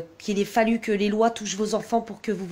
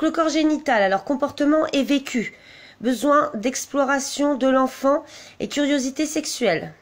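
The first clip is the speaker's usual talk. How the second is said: higher-pitched read-out from a document; reading aloud; 4 semitones higher than usual. Real, not acted. Vlogger reading out development stages for age four, read-aloud voice. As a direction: read the headings out at a raised pitch.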